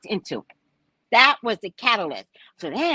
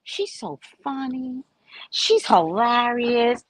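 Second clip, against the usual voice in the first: imitating listeners. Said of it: "I tell it in such a way where it's like".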